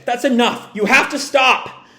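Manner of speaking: high, insistent plea; acted desperate urging; urgent plea. Acted plea to stop a friend.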